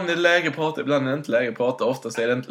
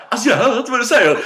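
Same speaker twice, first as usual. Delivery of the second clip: mom shouting back; 10 semitones higher, 6 dB louder than usual. Retold or imitated. Mom can't hear the call.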